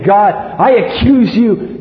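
lightly voiced devil laying a charge before God; the devil pressing his case, slow and deliberate; devil accusing. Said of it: "the devil would go before and say".

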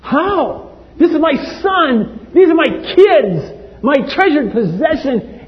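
hushed then rising anguished plea; a hint of grieving God; God's lament. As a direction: speak as a heartbroken father. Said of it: "God said to Himself".

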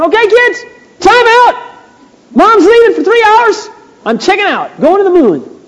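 high, loud hammed-up mom announcement; mother announcing to the kids she's leaving; mock frazzled mom. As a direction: play an exhausted mommy declaring her escape. Imagined mom escaping the kids.

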